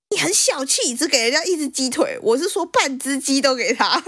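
grandma scolding. Retold or imitated. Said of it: "我阿嬷就骂我妈说".

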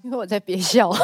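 holding back a laugh; words pressed out through a suppressed giggle; trying not to laugh. Real, not acted.

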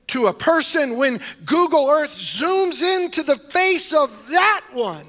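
high, loud, rising preacher's fervor; fiery preaching. Acted. Pastor rousing his church, preaching at full force.

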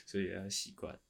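ordinary delivery

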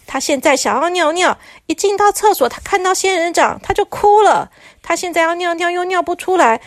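lightly voiced frantic president; urgent president. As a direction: hurry him along. President urges on phone.

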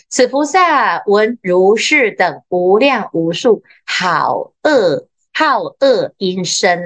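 slow, measured scripture recitation; sutra reading. Acted. Teacher reading sutra text to students, slow measured recitation. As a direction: read the sutra line slowly and deliberately.

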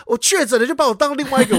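high-pitched imitated grievance; retold huffy complaint; slightly angry. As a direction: protest mildly, like an offended dad. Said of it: "他自己也有点小生气".

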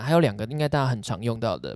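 normal talking voice

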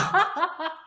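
short high cackle that falls away; high laugh. Real, not acted. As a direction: let a high laugh burst out. Laughing at own story.

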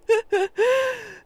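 high-pitched burst of staccato giggling; high laugh. Retold or imitated. Telling about friend's funny video, giggling high. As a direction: break into a squealing laugh.

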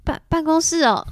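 mildly forced breezy tone, stumbling on 办; faking cheerfulness. Retold or imitated. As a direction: play it falsely casual to hide nerves. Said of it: "故作爽朗". (故作爽朗地说)

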